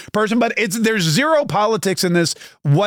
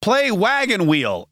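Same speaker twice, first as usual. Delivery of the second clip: talking to Siri; 3 semitones higher, much slower than usual. Retold or imitated. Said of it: "I'll be like".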